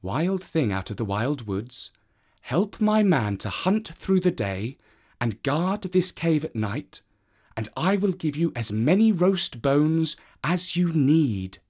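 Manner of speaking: a woman striking a deal; snooty bored cat. Acted. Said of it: "The woman said".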